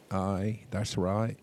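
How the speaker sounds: put-on Australian accent; casual Australian twang. Shown as a demonstration. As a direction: show off a supposedly authentic Australian accent. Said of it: "a one hundred percent authentic Australian accent".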